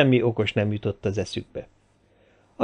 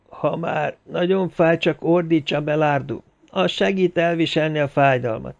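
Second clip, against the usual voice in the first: Jaguár woman; 5 semitones higher than usual. Acted. Jaguár woman speaks to Abelardo. (Jaguár asszony kissé magasabb, lassú hangja)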